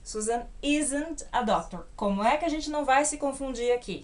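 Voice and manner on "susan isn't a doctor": slow model of "isn't" said "iz-ent"; pronunciation demo. Shown as a demonstration. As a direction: teach "isn't" slowly, stress on "isn't". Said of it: "Pronúncia aqui também".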